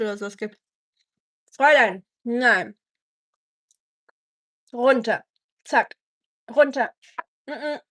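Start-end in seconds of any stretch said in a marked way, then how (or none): 1.5-2.8 louder, stern 'Fräulein, nein' with falling ends; firm command. Real, not acted. Scolding the dog at the food: stern, loud command. 4.7-7.8 firm command. Real, not acted. Telling the dog to get down: stern command.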